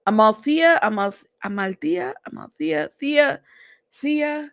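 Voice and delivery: trying out Amalthea, repeating its Thea ending; tentative stabs at pronouncing Amalthea; unsure name attempts. Real, not acted. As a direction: feel your way through Amalthea, breaking off and retrying. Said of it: "I keep saying your name off".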